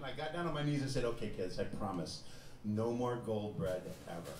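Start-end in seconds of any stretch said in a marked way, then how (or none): 1.0-4.3 put-on lower, gentle promise to the kids; reassuring dad. Dad on his knees promising his kids, calm and reassuring. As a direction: settle them down with a sincere promise.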